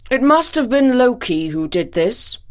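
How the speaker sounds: a grave pronouncement; pronouncing. Acted. Odin pronounces judgment before the gods. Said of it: "he pronounced".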